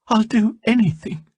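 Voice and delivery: high, earnest vow; desperate vow. A narrator's reading. Salmataya vowing to Yanti, high desperate pledge. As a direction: swear it desperately. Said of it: "she vowed".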